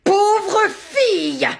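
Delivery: very slow, high, stretched insult; hammed-up cry. Teacher dictating, hamming up a wail. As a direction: wail it theatrically. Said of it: "crier comme ça".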